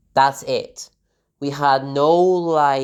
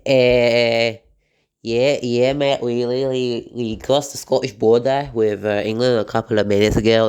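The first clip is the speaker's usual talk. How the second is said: a bad Scottish accent, barely put on; a self-mocking try at a Scottish accent; Scottish accent attempt. Vlogger in a car tries a Scottish accent, badly. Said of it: "that was my attempt of a Scottish accent".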